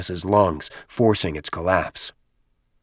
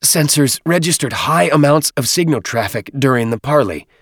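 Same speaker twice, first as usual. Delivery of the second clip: higher squeaky nervous voice; squeaky little voice; 7 semitones higher, 4 dB louder than usual. Acted. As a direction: squeak it like a small creature. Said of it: "Dadab's muffled voice squeaked".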